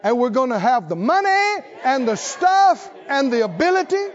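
emphatic list with each item lifted; rally the congregation item by item; building pulpit promise; rousing preaching. Real, not acted.

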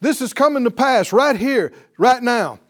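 loud, ringing pulpit proclamation; preacher thundering the Isaiah reading to the congregation; preaching at full force. Acted. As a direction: declaim the scripture like a revival preacher. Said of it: "He said".

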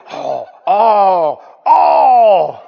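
hammed-up loud wailing cry of outrage; mock-crying protest of outraged churchgoers. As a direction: mimic the shocked critics with a fake loud wail. Mocking outraged critics' wail.

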